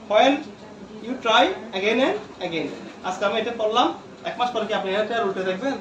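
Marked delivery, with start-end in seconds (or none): 0.1-2.7 stretched out, slow and deliberate; slow repeat. Shown as a demonstration. Teacher slowly repeating the motto to his students. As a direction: drag each word out to make it stick. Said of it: "teacher repeats motto".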